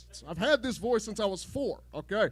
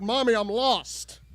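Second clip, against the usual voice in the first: put-on whiny child; 4 dB louder, slower than usual. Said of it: "I said, "Mom," I said".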